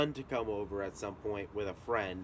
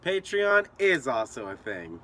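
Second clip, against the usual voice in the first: emphatic repeat; 3 semitones higher, 6 dB louder, slower than usual. Acted. Loud slow repeat.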